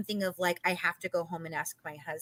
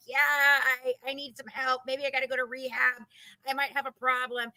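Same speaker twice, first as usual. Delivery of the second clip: mock apology; 4 semitones higher, 4 dB louder than usual. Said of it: "apology tour to kind of be like".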